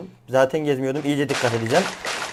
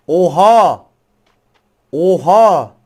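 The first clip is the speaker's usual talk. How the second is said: shocked shout; 2 semitones higher, 7 dB louder, much slower than usual. Real, not acted. Sudden surprise in game.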